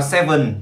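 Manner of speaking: learner's wrongly stressed "seven", second syllable up. Shown as a demonstration. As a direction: lean on the end of "seven". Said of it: "seven thì là seven đi lên rồi".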